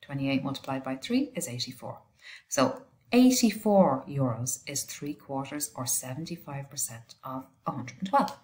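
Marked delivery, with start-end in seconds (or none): 2.5-8.4 sniffling. Real, not acted. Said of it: "Excuse the sniffling".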